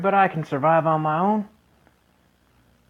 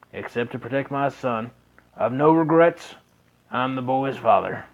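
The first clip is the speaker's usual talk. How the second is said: lightly lowered fatherly voice, solemn; gruff old father; 4 semitones lower than usual. Acted. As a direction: speak as a grieving father making a vow. Narrating father's vow in game.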